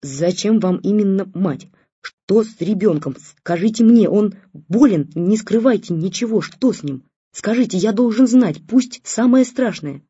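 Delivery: loud frantic begging father; panicked pleading. Acted.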